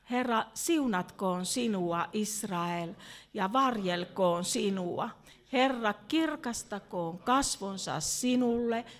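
slow, ceremonial recitation of the blessing; priestly benediction pronounced solemnly. Real, not acted. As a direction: intone it slowly like a benediction. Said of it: "haluaisin päättää tähän juhlallisesti".

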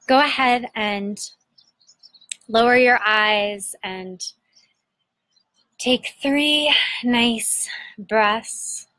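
unhurried meditation guide, long pauses between phrases; guided meditation. Acted. Host guiding listeners to breathe into their belly, guided meditation.

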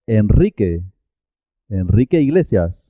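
Enrique with a rolled R; double R after N. Shown as a demonstration. Teacher models R after N in Enrique, trilled. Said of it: "pero suena doble".

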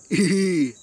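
short mocking cartoon laugh; low little character chuckle; cartoon giggle. Character laughing after taunting Oggy about the tub, cartoon giggle.

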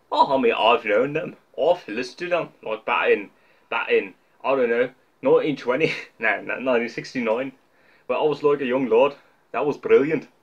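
hammy fake Scottish voice; mock Scottish old-timer bragging; fake Scottish accent. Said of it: "my Scottish accent is as fake as it gets".

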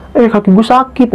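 high-pitched tearful complaint, mimicked; mock crying. Retelling how Mawar cried about her sore leg, mock crying. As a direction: imitate a friend wailing about pain.

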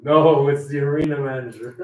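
punchline replayed through a laugh; laughing punchline reprise. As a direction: repeat the voice's answer, cracking up. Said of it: "And the voice says".

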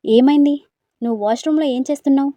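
high, fast, loud astonishment; startled rapid questioning; surprised question. Acted. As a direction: blurt it out amazed. Brother-in-law surprised by her state.

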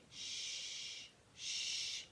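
soft unvoiced shh to hush a baby; shushing. A narrator's reading. Missus McNally hushing crying Annie Rose, softly whispered. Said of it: "Missus McNally said".

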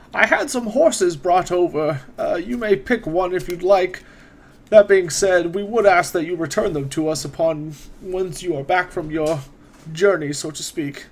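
a hint of a courteous court wizard, unhurried; wizard NPC voice.

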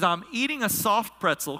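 lightly imitated pastor friend; a hint of a friend's way of talking; Brian. Preacher quoting his friend on the phone in traffic, lightly imitated. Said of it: "this is Brian talk, this is the way he talks".

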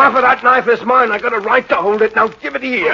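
insistent demand. Acted. Albert claiming his half of the knife, heated and insistent. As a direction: press your claim hotly. Quarrel over who holds knife.

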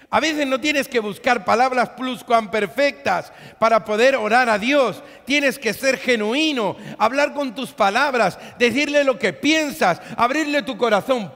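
loud, high exhortation; fervent preacher exhorting the church; full-force preaching. Acted. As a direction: urge them with all your voice.

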